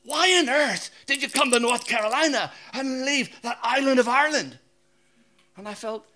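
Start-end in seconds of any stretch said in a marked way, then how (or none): 0.0-4.6 higher, louder, incredulous why on earth; mock amazed locals. North Carolina locals ask the Irishman, hammed-up disbelief. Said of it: "everybody in North Carolina says to me".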